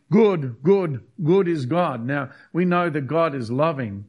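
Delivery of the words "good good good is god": raised, louder mock chant of good; mock shout. Preacher mimicking a wrong shout, louder and raised. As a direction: call out good like a wrong anthem. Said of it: "They weren't shouting".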